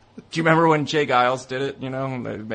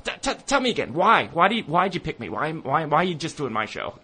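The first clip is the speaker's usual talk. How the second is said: baffled stammer; 5 semitones higher than usual. Retold or imitated. Host baffled by band.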